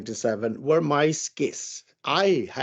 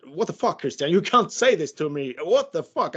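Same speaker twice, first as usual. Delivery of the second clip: higher-pitched mock protest; indignant, pitch climbing, not shouted; retold exasperation; 3 semitones higher than usual. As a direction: act out an indignant objection. Retelling his outburst on the phone.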